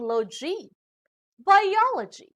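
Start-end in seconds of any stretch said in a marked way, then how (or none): 1.4-2.3 "biology" high and loud on OL; stress before ending. Shown as a demonstration. Teacher showing ending logi, "biology" stressed on OL. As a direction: punch the second syllable of "biology". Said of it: "the syllable before these endings".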